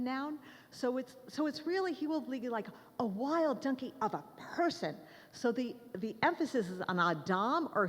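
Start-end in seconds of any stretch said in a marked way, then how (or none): 3.0-5.0 "person" set apart with a strong accent; stress on person. Shown as a demonstration. Teacher showing which noun matters, stress on "person". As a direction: lean hard on the final word "person". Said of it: "the emphasis is on the absolute noun".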